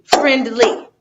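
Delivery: "friendly" as FRIEND-LY, two clear beats; two syllables. Shown as a demonstration. Teacher repeats for students, "friendly" in two distinct syllables. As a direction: sound out both halves of "friendly". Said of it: "friendly is two".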